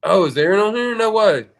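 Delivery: surprised. Real, not acted. Friend spots a viewer in chat.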